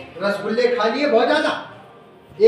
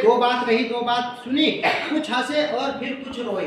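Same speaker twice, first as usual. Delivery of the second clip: recited verse; 2 semitones higher than usual. Shown as a demonstration. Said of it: "आगे कह रहे हैं".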